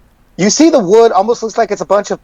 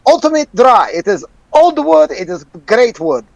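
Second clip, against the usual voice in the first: merchant voice; 3 semitones higher than usual. Acted. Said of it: "he goes".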